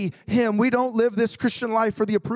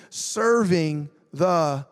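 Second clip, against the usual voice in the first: slow prompting read; 5 semitones lower, much slower than usual. Shown as a demonstration. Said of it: "Would you read those first three words of verse nineteen aloud?".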